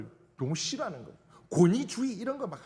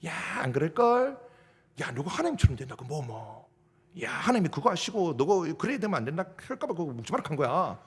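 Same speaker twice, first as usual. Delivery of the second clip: sly tempter; 3 semitones lower than usual. Retold or imitated. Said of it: "살살살살 꼬시는 거예요".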